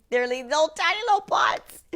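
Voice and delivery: high, tiny cutesy voice; cutesy squeal. Real, not acted. Gushing over tiny cute pots.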